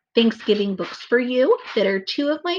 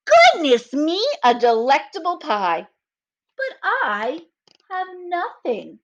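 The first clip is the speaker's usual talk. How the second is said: lightly voiced Bear; 8 semitones higher, slower than usual.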